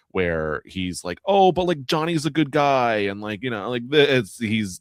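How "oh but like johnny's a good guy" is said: lightly mimicked defender, pitched high; high-pitched mock protest; Derek. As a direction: imitate a friend sticking up for someone, starting high and loud. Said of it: "this is just a classic Derek".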